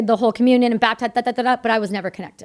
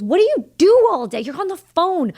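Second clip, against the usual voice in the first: mock husband complaint; 8 semitones higher, 4 dB louder than usual. Husband asks about her calls.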